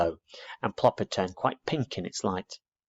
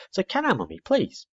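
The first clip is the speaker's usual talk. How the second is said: pleading; 14 semitones higher than usual. Acted. Owlet begging his mother.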